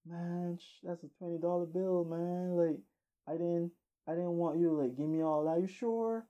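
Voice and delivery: trying to be humble. Acted. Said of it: "he tried to humble it".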